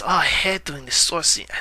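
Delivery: botched Mexican accent, lightly put on; bad Mexican accent. Vlogger quoting Del Toro on sword scenes, horrible Mexican accent. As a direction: imitate a director in a clumsy Mexican accent. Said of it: "That's a horrible Mexican accent".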